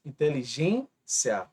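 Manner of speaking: Inteligência devagar, gên alongado; stressed syllable shown. Shown as a demonstration. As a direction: marque a sílaba gên em Inteligência. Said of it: "é a penúltima sílaba mais forte". (Inteligência lenta, penúltima forte)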